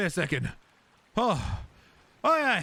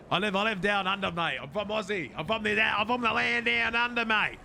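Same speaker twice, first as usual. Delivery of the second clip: put-on Australian accent; 3 semitones higher than usual. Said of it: "You sound different".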